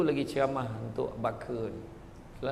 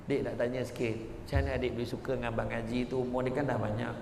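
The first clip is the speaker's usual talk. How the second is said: gentle asking; 4 semitones lower, 6 dB quieter, faster than usual. Acted. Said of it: "Cuba tanya perempuan tu".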